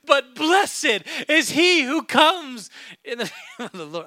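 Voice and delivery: overflowing into a laugh mid-verse; getting excited. Real, not acted. Pastor laughing with excitement mid-verse. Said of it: "I'm getting excited".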